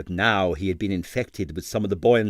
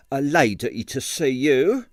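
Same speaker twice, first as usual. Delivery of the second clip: disapproving landlady; 3 semitones higher, slower than usual. Acted. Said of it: "gave tongue".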